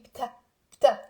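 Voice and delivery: بتا said as one short beat, B run straight into T; بتا with no vowel between B and T; syllable drill. Shown as a demonstration. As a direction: model بتا alone for learners to echo. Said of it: "Say with me".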